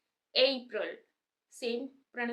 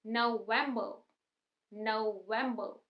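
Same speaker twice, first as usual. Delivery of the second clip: नवंबर as noh-VEM-buh; stress on second syllable; much slower than usual. Shown as a demonstration. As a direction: lean on the middle "vem" of नवंबर. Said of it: "वे पे stress आ रहा है". (नवंबर में वे पर ज़ोर)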